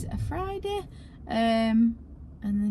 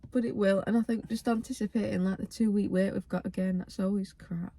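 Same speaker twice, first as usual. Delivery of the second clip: shaky, wavering voice; 2 semitones lower, 4 dB quieter than usual. Real, not acted. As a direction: voice wobbling with emotion. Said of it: "Got a right little wi-, waver in my voice".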